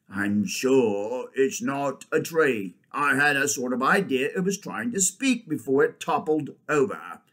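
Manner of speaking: lightly voiced, measured badger; badger character. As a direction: give the badger's considered opinion. Badger figure in story.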